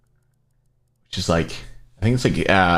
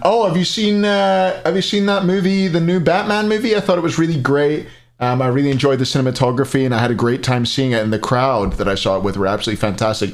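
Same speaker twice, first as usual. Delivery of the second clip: high, bright-eyed imitation of a German fan gushing in English; mock German speaker; 5 semitones higher than usual. Streamer imitating Germans apologizing for their English, high-pitched. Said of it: "They'll be like".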